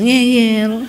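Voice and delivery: laughing ngeyel; playful tease; teasing jab. Retold or imitated. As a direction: drop the word as a joke. Teasing word in prayer.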